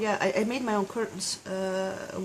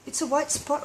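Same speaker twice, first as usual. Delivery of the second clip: mock panic; 10 semitones higher than usual. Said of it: "it's not like".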